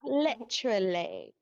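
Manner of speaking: put-on slow, playful English accent. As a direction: draw it out in a mock English accent. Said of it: "English accents part two".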